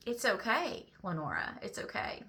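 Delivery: retold soothing words, let them fade softly; gentle reassurance. Friend comforting her over video chat, gently reassuring.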